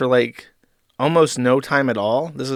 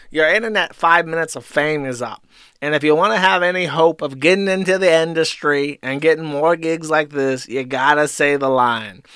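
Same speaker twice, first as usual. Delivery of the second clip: put-on Jewish accent; 3 semitones higher, 4 dB louder than usual. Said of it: "I can't do Jewish correctly".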